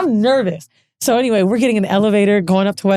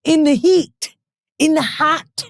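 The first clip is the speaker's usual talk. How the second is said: slow, higher, stretched-out words; deliberate, teasing echo; 5 semitones higher, slower than usual. Retold or imitated. Telling co-host her reply to boyfriend, deliberately drawn out. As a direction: draw out each phrase deliberately. Playing on partner's warning, drawn out.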